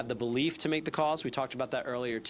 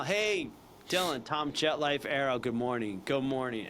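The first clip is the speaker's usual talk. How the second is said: smiling sales greeting. Shown as a demonstration. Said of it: "if you even get him to smile".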